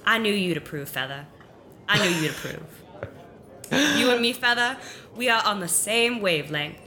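lightly voiced character, eager; a hint of a made-up voice, excited about her idea; talking to a bird companion; shifting put-on voice. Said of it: "the voice is not going to be anything in particular".

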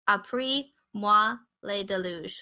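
"Après moi le déluge" read slowly, word by word in French; hesitant, slow French reading of "Après moi le déluge"; careful French. Shown as a demonstration. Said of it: "had to do the Google Translate for the French phrase".

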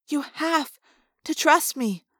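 "have" stressed, then a pause before "to trust me"; emphatic plea. A narrator's reading. Girl pleading with her friend, stressing "have". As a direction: break the phrase after "have". Cassie pleads, repeating the words.

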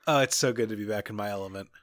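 gushing overjoyed, half joking; mock ecstatic. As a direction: revel in it like a meme. Joking about a bad dead drop.

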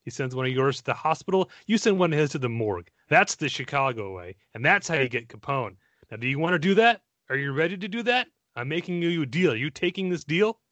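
a lightly put-on Scottish Connery growl, barely off his own voice; hammed-up Scottish Malone speech, rising as the deal is pushed; bad Sean Connery impression. Podcast host reciting Connery's Chicago way speech in a weak Scottish accent. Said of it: "which I'm gonna horribly murder now".

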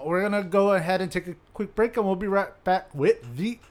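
stiff robotic announcer voice. Acted. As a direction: read it like a robot host. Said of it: "I'm sounding like a robot".

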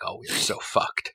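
breathless whisper of dread; whispered dismay. Retold or imitated. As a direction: whisper it like doom just landed. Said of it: "I read that and I was like".

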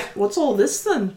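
slow demonstration of dwarf Scottish; attempted Scottish accent. Shown as a demonstration. Player showing game master the dwarf voice, Scottish accent. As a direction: draw out a mock-Scottish question. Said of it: "That's closer".

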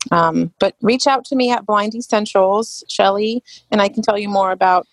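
put-on American accent; fake American accent. Oil seller advising a customer on sandalwood, fake American accent. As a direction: speak with an assumed American accent. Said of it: "that was my fake American accent".

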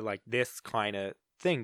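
low, slow Long Island lady voice. Retold or imitated. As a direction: slip lightly into a Long Island accent. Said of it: "a Long Island lady voice".

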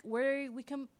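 ordinary delivery

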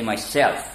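myself, stress falling on self; myself, lean on self not my; second syllable of myself stressed. Shown as a demonstration. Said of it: "accent on self rather than on my".

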